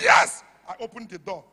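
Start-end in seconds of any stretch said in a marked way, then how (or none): 0.0-0.4 loud firm answer; firm yes. Retold or imitated. Strong mother answering her son, a loud firm yes. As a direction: answer like you won't back down.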